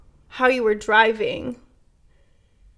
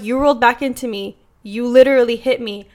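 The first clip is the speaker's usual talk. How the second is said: louder, emphatic accusation; retold angry insistence; 5 dB louder than usual. Driver insisting to the trucker he hit her, retold loud exasperation. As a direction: replay the argument, pushing the volume up.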